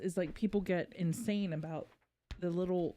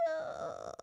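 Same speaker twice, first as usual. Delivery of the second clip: soft, low pained "ugh", like the soul wincing; a hushed, wounded grunt; pained groan; 5 semitones lower, 9 dB quieter than usual. Retold or imitated. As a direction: let out a quiet groan of disgust. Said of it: "my soul went".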